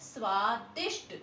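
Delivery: स्वादिष्ट spoken slowly with a clear ष्ट; teacher models स्वादिष्ट slowly; slow clear pronunciation. Shown as a demonstration. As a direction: draw out स्वादिष्ट for pupils. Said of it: "क्या है यह".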